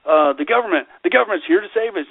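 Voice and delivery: high-pitched mock gullibility; sarcastic relief. Mocking people who trust government to save them, sarcastically. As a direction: play the naive believer, voice lifted in sarcasm. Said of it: "I'm using sarcasm to make a point".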